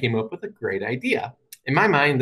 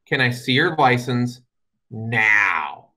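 stern, matter-of-fact; much slower than usual. Retold or imitated. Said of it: "in the most stern, matter-of-fact voice".

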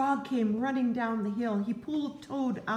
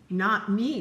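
loud refusal; 7 dB louder than usual. Acted. Toad refuses the sled.

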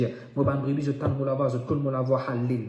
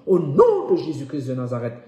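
loud, ringing declaration; forceful invocation; 6 dB louder than usual. Real, not acted. Preacher sealing the healing prayer, loudly invoking. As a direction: belt out the holy name.

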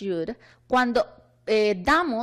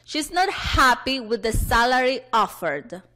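read-along model. Shown as a demonstration. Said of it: "vamos todos juntos a leer las oraciones".

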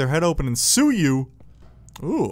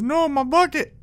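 a much higher, squealing cry of loss; mock walrus wail; 10 semitones higher, 3 dB louder than usual. The walrus in the meme losing its bucket, a high mock wail. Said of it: "and he says".

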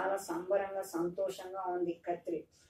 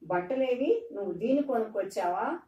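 higher, louder, fast scolding question; angry demand; 4 semitones higher, 5 dB louder than usual. Retold or imitated. Mother scolds husband for buying ox instead of clothes, angry. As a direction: snap at him for bringing the ox. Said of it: "అడిగింది మరియా".

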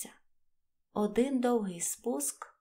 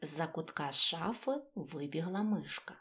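ordinary delivery

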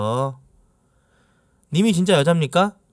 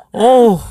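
exasperated groan; 6 semitones higher, 8 dB louder, much slower than usual. Real, not acted. Exasperated at rude viewer.

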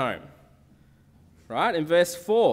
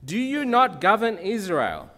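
a touch louder, mocking challenge; scornful Jezebel; 4 semitones higher, 5 dB louder than usual. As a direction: needle him with a hint of scorn. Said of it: "did you see the way that she talks to him".

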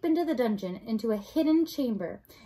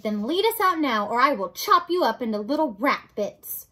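loud, lightly voiced threat; Mig, threatening serving girl; 6 dB louder than usual. Mig threatens rat with knife, loud lightly voiced threat. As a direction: stand up to him forcefully.

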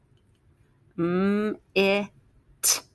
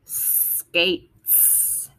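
whispered word; 3 dB quieter than usual. Shown as a demonstration. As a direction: whisper "Skates." with a soft hiss on the final s. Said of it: "it has to end with an S".

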